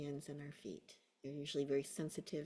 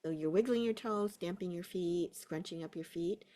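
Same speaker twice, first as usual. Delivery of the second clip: unhurried guiding voice with long pauses; guided meditation; 3 semitones higher than usual. Real, not acted. Teacher settling a class into a body scan, guided meditation. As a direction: ease them into a body scan. Guides attention through feet and toes.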